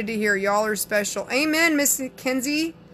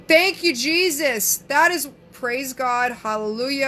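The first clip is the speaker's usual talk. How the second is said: slow, drawn-out church-style praise; praising; slower than usual. Pretend. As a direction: stretch it out like a joyful hallelujah in church. Praising a viewer's comment, church-style.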